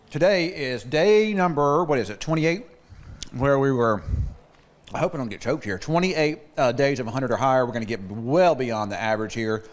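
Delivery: talking through a mouthful of food; mouth full. Real, not acted. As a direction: weather report with a mouth full. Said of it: "I've still got food in my mouth here".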